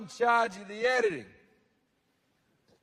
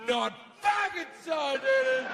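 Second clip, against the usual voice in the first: petulant God; 6 semitones higher than usual. Acted. God retorts.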